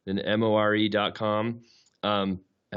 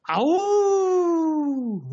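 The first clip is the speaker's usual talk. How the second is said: long high wolf howl; 5 dB louder than usual. Acted. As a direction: throw your head back and howl like a wolf. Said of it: "maybe more of a wolf howl".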